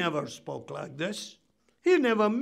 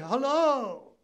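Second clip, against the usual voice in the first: higher, drawn-out friendly hello; pleasant greeting; 5 semitones higher than usual. Acted. Preacher acting a Christian greeting people on a bus, pleasant. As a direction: greet a stranger nicely, pitched up. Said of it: "You can be pleasant. You can be nice".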